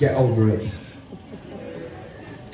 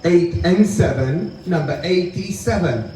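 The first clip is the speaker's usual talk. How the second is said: bingo caller. Acted. Calls bingo numbers.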